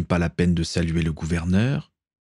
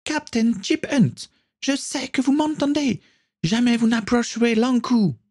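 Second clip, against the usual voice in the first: put-on very high young woman's voice calling from afar; Caitlin calling out. A narrator's reading. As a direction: cry out to him from the ship, pitched high. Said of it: "une voix familière se mit à hurler".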